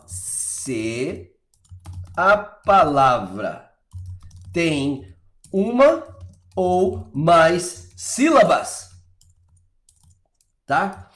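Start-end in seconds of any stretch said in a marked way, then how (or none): 0.1-8.9 very slow, word by word with gaps; halting, spaced-out delivery, one word at a time; slow dictation. Real, not acted. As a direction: dictate it slowly as you write it out. Dictating the rule while writing it.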